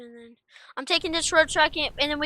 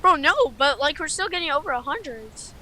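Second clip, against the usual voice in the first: excited protest; 2 semitones higher, 6 dB louder than usual. Real, not acted. Arguing storm still strong.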